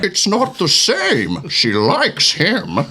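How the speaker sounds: slow, menacing masked villain; Bane voice. Acted. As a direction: intone it like a brooding brute. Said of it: "as a Bane".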